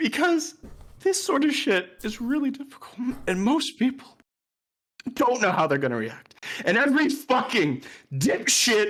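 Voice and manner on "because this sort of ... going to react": tearful, choked-up crying, voice breaking. Talking to chat after something terrible happened, while crying. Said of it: "I know I'm crying".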